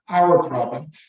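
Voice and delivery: emphatic "our", then "problems" falls away; stress on OUR. Real, not acted. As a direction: lean on the word "our". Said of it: "I emphasize the word".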